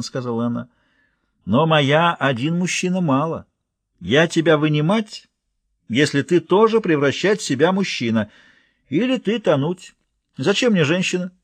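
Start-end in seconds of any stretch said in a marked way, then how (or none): 1.4-11.3 bargaining giantess. Acted.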